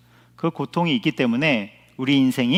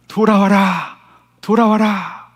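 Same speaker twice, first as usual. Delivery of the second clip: raised, higher-pitched calling out; megaphone-like shout; 6 semitones higher, 4 dB louder, slower than usual. Acted. Preacher voices God calling through suffering, shouting out. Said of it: "이렇게 소리치시는 하나님의 확성기".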